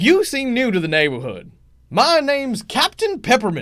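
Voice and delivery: boisterous, loud, booming voice swinging up and down. A narrator voices a candy character greeting newcomers, boisterous Captain Peppermint voice. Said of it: "you can hear this quite boisterous peppermint".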